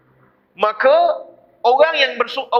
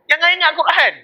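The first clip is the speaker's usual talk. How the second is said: emphatic warning; 7 semitones higher than usual. Real, not acted. Preacher warning, repeated.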